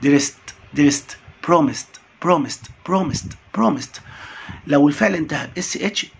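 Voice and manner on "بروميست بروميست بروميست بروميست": بروميست: finish on st. Shown as a demonstration. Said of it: "الاي دي تنطق تي".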